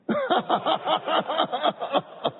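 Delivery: a bright, high burst of laughter; amused high-pitched chuckle; real laugh. Real, not acted. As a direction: laugh freely at your own demo. Laughs after his own demo.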